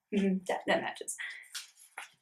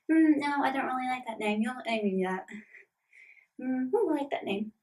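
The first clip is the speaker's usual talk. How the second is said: lightly voiced fussy little creature, higher; a hint of a picky pet turning down names; Bullet; 4 semitones higher than usual. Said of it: "role-playing Bullet and, like, nibbling on little food and going".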